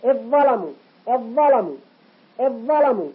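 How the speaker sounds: "إذ ظلموا" as idh-dhalamu on one heavy doubled consonant; assimilated dhal. Shown as a demonstration. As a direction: swallow the dhal into the emphatic in "إذ ظلموا". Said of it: "هو الذي يؤثر على الحرف الأول". (إدغام ذال "إذ" في ظاء "ظلموا")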